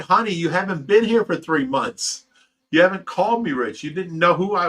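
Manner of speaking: insist, half-pleading, that she's been gone; urgent retold plea. Explaining to confused wife.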